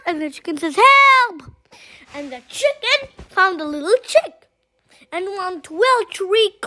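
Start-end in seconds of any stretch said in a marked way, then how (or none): 0.8-1.5 high, loud call for help; cry for help. Acted. Chicken in the story calling out for help, loud. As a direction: yell it like you're stuck.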